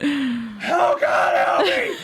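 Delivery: very high, very slow panicked wail, "oh" stretched. Acting out a caller to an animal testing lab: screaming in panic. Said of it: "You keep screaming like that".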